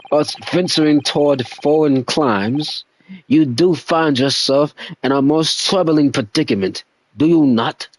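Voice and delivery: lightly voiced posh English gentleman; a hint of a stuffy English detective. Voices detective dialogue in accent.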